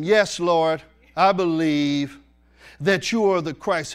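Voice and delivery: Yes, Lord proclaimed loud, I believe stretched slowly; loud, forceful read. Shown as a demonstration. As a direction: declare the faith forcefully. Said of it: "the reason I'm reading this like this".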